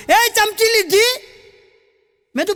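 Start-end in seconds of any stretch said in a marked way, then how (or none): 0.1-1.1 calling out. Retold or imitated. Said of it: "નોકરને જોરથી બૂમ".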